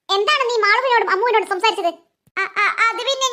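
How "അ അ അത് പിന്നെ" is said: stammering out an excuse; hesitant, cornered stammer; nervous stammer. Acted. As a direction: stumble over the first sounds, caught out.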